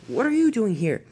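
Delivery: high-pitched astonished question; startled and incredulous; gasped surprise. Acted. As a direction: ask in amazement. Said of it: "he gasped".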